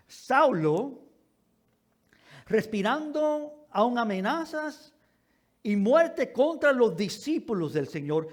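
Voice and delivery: deliberate, declaimed Bible reading with long pauses; solemn pulpit reading; scripture reading. Acted. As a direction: read scripture aloud, weighting key words. Reads scripture aloud to congregation.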